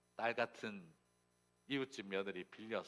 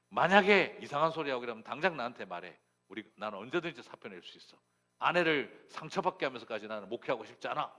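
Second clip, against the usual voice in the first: forceful, slightly raised declaration; heated vow; 3 semitones higher, 9 dB louder than usual. Retold or imitated. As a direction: insist like a fiercely protective husband. Husband vows to resign for wife. (단호하게 목소리 높여 큰소리치는)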